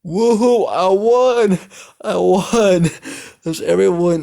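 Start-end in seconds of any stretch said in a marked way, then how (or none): 0.0-2.9 high, loud whooping cheer; victory shout. Acted. Izumi celebrating her drinking game win, in a high loud whoop. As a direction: crow over the win at the top of the voice.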